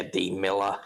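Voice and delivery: lightly attempted Aussie accent; understated Australian imitation. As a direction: echo it in mild mock-Australian, dropping the r. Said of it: "maybe just do the Australian".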